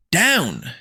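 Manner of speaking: high barked command; drill sergeant shout. Acted. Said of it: "she yells".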